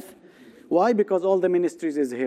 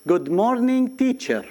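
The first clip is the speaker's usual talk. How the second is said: sing-song classroom good morning, pitched higher; school greeting; 5 semitones higher than usual. Shown as a demonstration. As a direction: greet the teacher like a pupil reciting in class.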